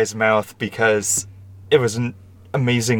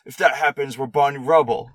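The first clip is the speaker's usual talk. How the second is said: lightly imitated Cockney, pitched up; Cockney accent; 4 semitones higher than usual. Podcaster quoting a British movie character, mock Cockney. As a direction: mimic a Cockney movie line. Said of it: "The Cockney accent".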